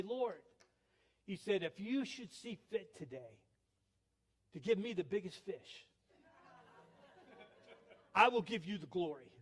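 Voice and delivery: mock-solemn prayer with long pauses; measured, earnest plea to the Lord, acted out; imitated prayer. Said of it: "end this prayer like this".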